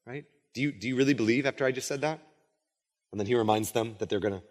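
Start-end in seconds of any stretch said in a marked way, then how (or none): 0.5-2.2 quick, softer doubting question; understated acted skepticism; subtle rebuke. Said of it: "Jesus subtly rebukes them".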